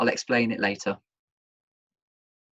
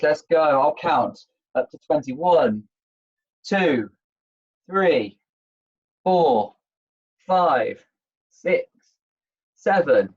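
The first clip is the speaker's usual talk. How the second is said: aerobics instructor; slower than usual. Acted. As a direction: count the reps like a gym coach. Counts squats aloud.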